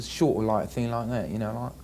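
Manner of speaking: rough attempt at an English accent; imitated British accent. Shown as a demonstration. Actor shows interviewer the shorter English sounds, imitated British accent. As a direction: slip lightly into British, vowels shorter. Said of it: "and they say long, sort of a".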